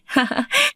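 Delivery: short airy laugh rising high; a quick amused giggle; brief high laugh at her own remark; light laugh. Acted. Light laugh after teasing question.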